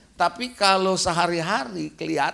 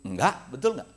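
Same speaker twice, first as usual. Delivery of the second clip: put-on a flat, offhand teen denial; plain quoted denial, voice barely changed; sulky child's denial; 3 semitones lower than usual. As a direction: brush off the parent with a quick no. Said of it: "Begitu kan?".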